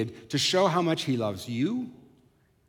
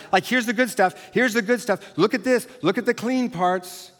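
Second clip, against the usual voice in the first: eager showing off; 5 semitones higher than usual. Acted. Mimics people showing off good parts.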